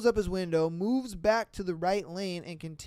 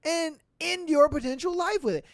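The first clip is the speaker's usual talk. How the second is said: mock tough trucker; 8 semitones higher, 6 dB louder than usual. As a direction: ham up the trucker's threat. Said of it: "and says".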